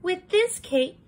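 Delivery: put-on preen like a vain little girl. Red admiring her cape, high and sing-song. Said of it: "she said".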